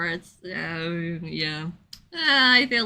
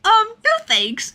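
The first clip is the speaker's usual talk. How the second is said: much higher, louder polite refusal; Kaede turning down; 12 semitones higher, 5 dB louder than usual. Retold or imitated. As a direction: brush him off brightly. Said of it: "she's like".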